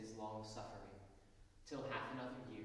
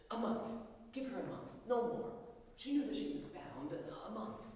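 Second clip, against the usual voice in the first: higher, louder begging; urgent plea; 9 semitones higher, 4 dB louder than usual. A narrator's reading. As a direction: press for one more month. Annie begging for delay.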